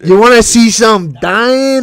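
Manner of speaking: slow Italian-American movie mobster; playful Italian-American wiseguy accent. Acted. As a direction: drawl a mock Italian-American threat. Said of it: "the accent like they do in the movies".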